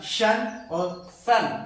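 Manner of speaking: SHAN with a hushing sh, SAN with a sharp s; contrasting sh and s. Shown as a demonstration. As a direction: set शन against सन by the first consonant. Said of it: "कितना different है".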